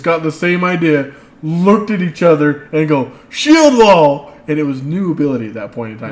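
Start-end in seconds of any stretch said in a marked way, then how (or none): 3.3-4.3 loud rallying shout; shouted battle cry. Retold or imitated. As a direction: bellow it like a battle call. Players shout battle call together.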